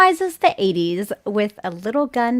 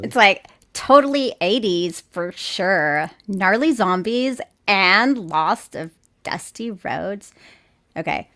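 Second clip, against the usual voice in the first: put-on light Valley Girl voice; totally Valley Girl, like; Valley Girl accent. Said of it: "Valley Girl accent".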